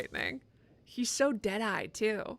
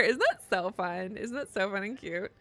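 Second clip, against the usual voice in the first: sarcastic mock cheer. Real, not acted. Gamer mocking grim marriage stats in fake delight. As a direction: pretend it's adorable.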